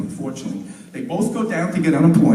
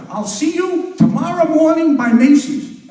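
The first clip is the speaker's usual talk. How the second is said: lightly voiced father; 10 semitones higher, 4 dB louder than usual. Father's Yiddish-tinged phone call.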